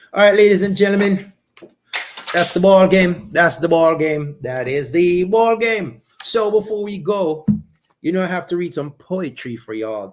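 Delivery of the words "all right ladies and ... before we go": announcer sign-off. Acted. Wrapping up show like announcer.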